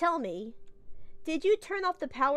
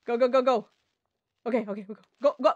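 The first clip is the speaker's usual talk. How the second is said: urgent go go go; 2 semitones lower, 4 dB louder, much faster than usual. Real, not acted. Urging self to escape blast.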